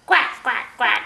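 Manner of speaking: loud, short duck quacks; lightly imitated duck, punchy quacks. Shown as a demonstration. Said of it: "What's a duck say?".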